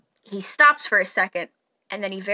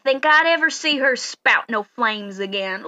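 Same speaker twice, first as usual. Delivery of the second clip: very slow country farmer voice; slow folksy farmer; 2 semitones higher than usual. Acted. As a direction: drawl it out like a grateful old farmer. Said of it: "and he goes".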